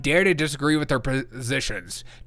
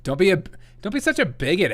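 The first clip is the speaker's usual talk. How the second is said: mock leftist scolding; 4 semitones higher, faster than usual. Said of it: "I'm gonna call 'em a freaking bigot".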